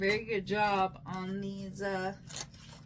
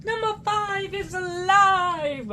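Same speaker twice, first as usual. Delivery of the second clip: robot voice; 10 semitones higher, 7 dB louder than usual. Pretend. Short Circuit robot quote.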